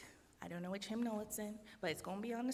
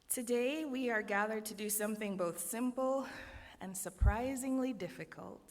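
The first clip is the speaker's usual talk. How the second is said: preaching. Acted. Opening sermon address.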